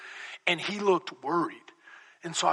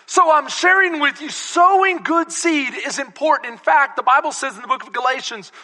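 raised preacher's pitch; preaching; 9 semitones higher, 7 dB louder than usual. Real, not acted. Preacher introduces Galatians to the church, preaching. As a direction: drive the point to the congregation. Preaches at full force to congregation.

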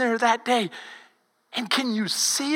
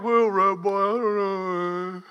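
doubtful Peter; 3 semitones lower, slower than usual. Retold or imitated. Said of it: "You were like".

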